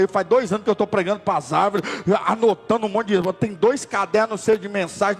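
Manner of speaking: from pleading to high, loud protest; rising anger, ending in a cry; building complaint. Retold or imitated. Young preacher complaining to God, rising to a loud cry.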